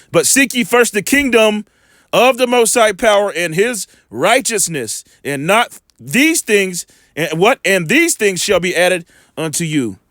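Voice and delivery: slow, deliberate scripture reading. Acted. Preacher reading Matthew to his listeners, slow solemn reading. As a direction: give each phrase of the verse weight, slowly.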